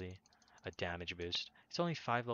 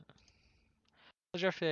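roughly, high and slow, stretched out; high drawn-out roughly; 9 semitones higher, 6 dB louder, much slower than usual. Real, not acted. Repeats word, higher and slower.

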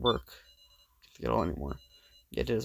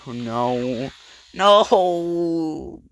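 loud, high cry of despair; a desperate shout of no; anguished cry; 4 semitones higher, 8 dB louder, much slower than usual. Acted. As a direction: scream the no as the plan fails. Despair at a miss.

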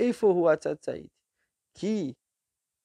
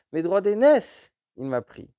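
indignant; 6 semitones higher, 6 dB louder than usual. Acted. Esau complains to Isaac.

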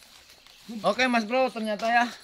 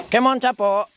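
calling out; 7 semitones higher, 9 dB louder than usual. Real, not acted. Calling the dog.

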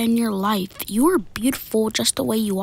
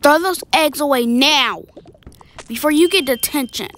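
louder, scolding teacher's command; stern order; 3 semitones higher, 4 dB louder than usual. Acted. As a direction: order a pupil sharply to obey. Teacher scolds pupil over eggs.

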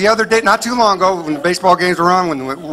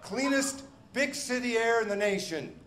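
slogan read; 5 semitones higher, 18 dB quieter, slower than usual. Retold or imitated. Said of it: "signs everywhere that say".

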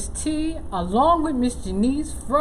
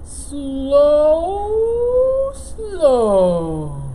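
slow loris; 4 dB louder than usual. Acted. Sleepy loris inching down, speaking slowly. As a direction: stretch each word lazily.

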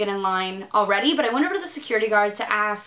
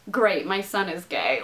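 unenthused mock; 5 semitones lower than usual. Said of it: "If he had been like".

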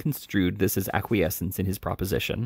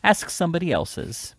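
hysterical laugh; 8 semitones higher than usual. A narrator's reading. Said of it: "another hysterical laugh".

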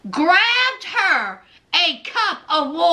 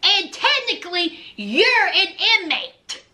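Lindsay; 3 semitones higher than usual. Retold or imitated. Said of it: "She said".

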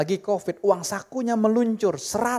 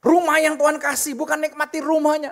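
higher, louder exhortation; preaching climax; 8 semitones higher, 5 dB louder than usual. Acted. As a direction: press the point home, loud and lifted. Sermon climax.

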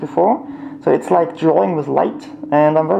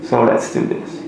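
muffled through a mask; inside a rubber mask; 5 semitones lower, 5 dB quieter, slower than usual. Real, not acted. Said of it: "with this mask on".

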